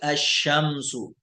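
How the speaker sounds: अशमसु slow with doubled sh and no lam; drawn out अशमसु; Arabic sun letter demo. Shown as a demonstration. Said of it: "लाम silent रहेगा".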